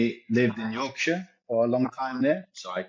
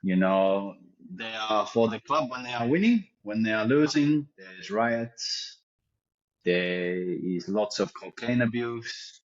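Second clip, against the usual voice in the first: put-on Leeds accent slipping in. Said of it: "heard more comfort coming from the Leeds accent".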